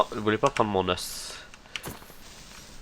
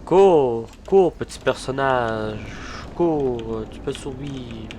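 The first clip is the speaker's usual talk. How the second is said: urgent cheering; 3 semitones higher, slower than usual. Real, not acted. Gamer yelling at his fleeing character to run. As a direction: egg the little character on to run.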